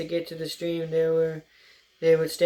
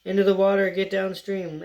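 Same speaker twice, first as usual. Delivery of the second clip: called order; 3 semitones higher than usual. Acted. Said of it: "Tam called the patrol hares".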